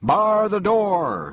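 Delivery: loud, high shout. A narrator's reading. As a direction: shout it out, jumping up and down. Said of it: "shouted the bug".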